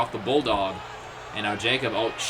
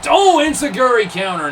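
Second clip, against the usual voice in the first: louder, higher burst on the counter; excited call; 7 semitones higher, 7 dB louder than usual. Real, not acted. Commentator reacting to a sudden counter, excited. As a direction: jump on the move name.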